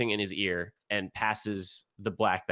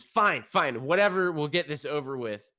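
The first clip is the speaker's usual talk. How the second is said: grudging father; 4 semitones higher, 3 dB louder than usual. Acted. GM voices father giving in.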